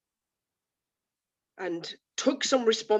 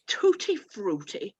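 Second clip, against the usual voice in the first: disdainful, slow; slower than usual. Acted. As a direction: say it with slow distaste, as if Tutti frutti were vulgar. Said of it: "Sounds very vulgar".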